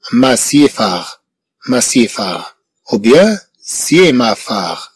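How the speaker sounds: slow, spelled-out wrong syllable orders. Shown as a demonstration. Teacher testing pupils with wrong syllable orders, slow. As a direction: drag out each wrong combination. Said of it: "هذه الكلمات غير موجودة".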